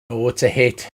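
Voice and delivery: normal talking voice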